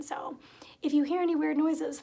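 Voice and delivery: if you hear any weird noises whispered without voice. Real, not acted. Warning viewers about her cat, whispered aside. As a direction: whisper it softly.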